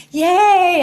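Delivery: mock cheer before doubt sets in; excited yay. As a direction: cheer like a kid. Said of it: "where you're like".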